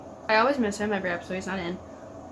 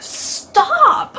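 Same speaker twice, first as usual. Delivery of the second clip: high, loud, crying plea to stop; anguished cry; 13 semitones higher, 9 dB louder than usual. Real, not acted. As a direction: beg through real tears. Begging show character to stop.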